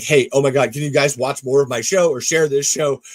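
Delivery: loud mock plea to fans; a creator loudly begging fans for help; pleading to fans. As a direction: beg the viewers loudly to watch and share. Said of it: "that I'm like".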